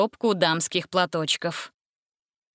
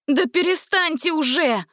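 much higher desperate plea; pleading; 8 semitones higher, 3 dB louder than usual. A narrator's reading. Gretel begs the singing vampire to stop, higher. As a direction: beg him to stop. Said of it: "взмолилась Гретель".

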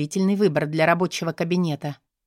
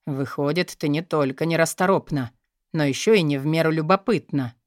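dry, lower mocking tone; ironic remark; 4 semitones lower than usual. Boss mocking the curious secretary, dryly ironic. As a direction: needle her with irony. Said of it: "иронично заметил Терсенов".

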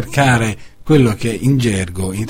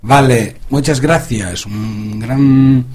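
Spanish greeting. Real, not acted. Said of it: "un saluto in spagnolo".

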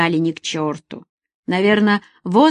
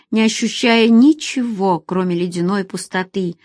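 ordinary delivery, nothing marked

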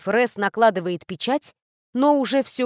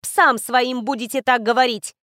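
angry retort; 2 semitones higher, 3 dB louder than usual. Acted. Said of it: "со злостью ответила я".

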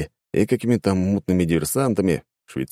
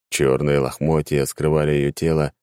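usual speaking voice

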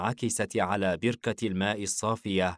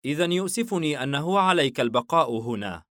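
lightly cool father, pitched up; mock coolness; 6 semitones higher, 4 dB louder than usual. A narrator's reading. Father walking on tells son to stay, mildly cool. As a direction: tease the boy with feigned regret. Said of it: "حاييم ببرود مكملا سيره".

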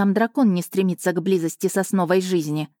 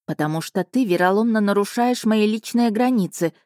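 clipped retort; 3 semitones higher than usual. Acted. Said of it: "отчеканила я".

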